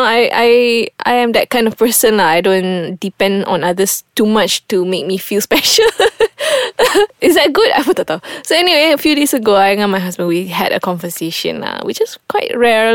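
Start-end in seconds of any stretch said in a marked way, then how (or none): 5.9-7.2 high burst of laughter. Real, not acted. Laughing at her own remark.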